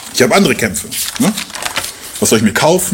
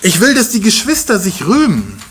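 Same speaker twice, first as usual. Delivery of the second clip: higher, fervent Paul voice; earnest Paul; 4 semitones higher than usual. Retold or imitated. Paul telling the believers he wants to help them, higher and fervent. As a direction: plead warmly for the church.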